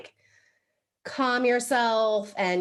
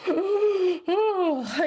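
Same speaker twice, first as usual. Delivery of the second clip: demonstrative open-mouthed yawn; fake yawn; 8 semitones higher than usual. Shown as a demonstration. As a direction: yawn it out to set others yawning. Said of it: "if I were to yawn right now".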